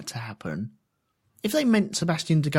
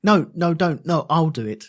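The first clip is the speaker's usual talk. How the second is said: passive-aggressive fine. Retold or imitated. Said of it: "that is worse".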